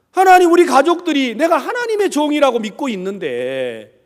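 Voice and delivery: loud, impassioned appeal to God; pleading prayer. Retold or imitated. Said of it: "제가 기도하고 나왔어요".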